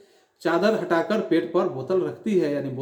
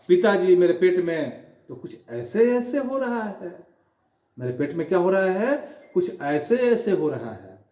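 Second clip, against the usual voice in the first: put-on whining boy. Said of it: "यानी अचानक बोला".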